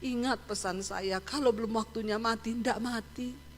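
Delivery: tearful. Retold or imitated. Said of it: "sambil nangis".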